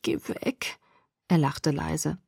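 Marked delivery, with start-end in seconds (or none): 0.0-0.8 very soft, feeble groan; moaned. A narrator's reading. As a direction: moan it with hardly any voice. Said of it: "stöhnte ich".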